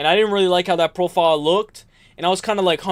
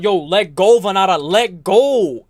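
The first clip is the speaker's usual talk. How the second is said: mock cageside yell; 4 dB louder, slower than usual. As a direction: call out to the fighter like a coach at the cage. Yelling at fighter from cageside.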